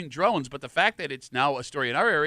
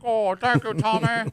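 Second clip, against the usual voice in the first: a lightly put-on higher cartoon critter voice; wallaby voice; 5 semitones higher, slower than usual. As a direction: speak as the grateful little wallaby, a bit higher. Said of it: "I talk like this".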